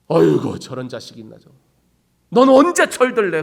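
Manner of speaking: put-on exasperated parent scolding a grown child; a parent's weary scold, rising at the end. Parent scolding a child who never grows up, exasperated.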